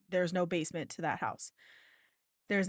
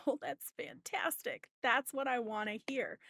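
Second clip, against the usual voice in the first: sarcastic whisper; 4 semitones higher, 4 dB quieter than usual. Retold or imitated. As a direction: breathe it out with dry sarcasm. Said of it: "And I'm like".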